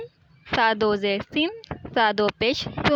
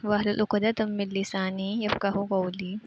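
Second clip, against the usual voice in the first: slow, measured Quranic recitation; recited prayer; slower than usual. Acted. Teacher opening online class, recites the dua slowly.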